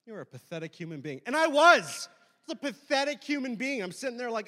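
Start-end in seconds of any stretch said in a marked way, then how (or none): 0.1-1.2 cold retold contempt. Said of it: "the glares they gave me afterwards were like".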